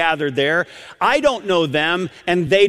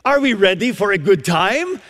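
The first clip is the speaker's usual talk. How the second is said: imitated Romanian grandmother, pitched higher; Romanian accent; 4 semitones higher than usual. Preacher repeating the grandmother's elevator greeting, Romanian accent. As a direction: put on an eager Romanian accent. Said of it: "this is a grandmother saying this".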